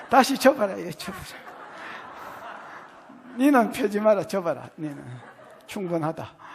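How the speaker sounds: Gyeongsang dialect. Acted. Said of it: "경상도 말로".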